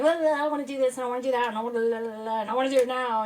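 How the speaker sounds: mock scatterbrain babble, rushing at the end; scattered hyperactive chatter. Voicing her own racing ideas, scattered chatter. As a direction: tumble through ideas in a singsong rush. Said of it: "total A D H D brain".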